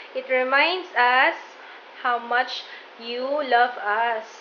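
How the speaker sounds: slow sincere words; slow loving line; tender, slow. Real, not acted. Repeating tender explanation.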